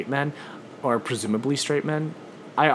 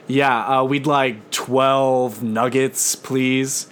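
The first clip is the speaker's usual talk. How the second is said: slow, louder flat drive-thru voice; dropped monotone voice; 2 semitones higher, 5 dB louder, much slower than usual. Retold or imitated. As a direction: drop the register and go monotone. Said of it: "we drop our voices and register, and we try to sound really monotonous".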